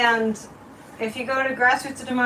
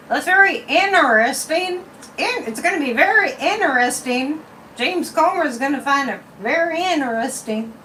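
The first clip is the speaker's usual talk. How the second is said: mock Southern accent, higher and louder; 5 semitones higher, 4 dB louder than usual. Making fun of Southern politicians, mock Southern accent. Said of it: "make fun of your Southern accents".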